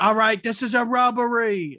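high, loud robber announcement; bank robber. Retold or imitated. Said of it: "such a flip of like".

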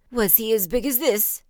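loud storybook frog boast; puffing old frog. A narrator's reading. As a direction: swell up proudly as a frog. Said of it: "puffing herself up".

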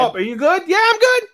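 very high-pitched mock panic; hammed-up flustered exchange. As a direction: squeak out an awkward, too-quick reassurance. Acting awkward exchange after a fall.

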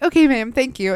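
sweet service voice for a customer. Retold or imitated. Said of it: "their customer service voice".

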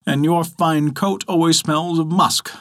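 slow jeering taunt; mock the rival, drawn out slowly. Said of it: "jeered the artichoke".

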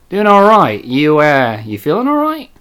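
imitated puzzled Australian customer; questioning lift in an Australian accent. Customer checks on worker who dropped the act, Australian accent. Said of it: "Remember the Australian guy".

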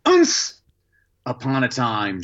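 put-on nervous little boy guessing; nervous child reading. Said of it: "I'd go".

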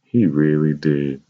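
slow, sincere insistence. A narrator's reading. Mother assuring Roger he was loved, sincere. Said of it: "My mother repeated with sincerity".

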